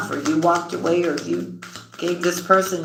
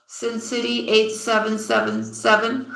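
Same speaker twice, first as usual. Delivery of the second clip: laughing; 5 semitones higher than usual. Real, not acted. Reading a funny username.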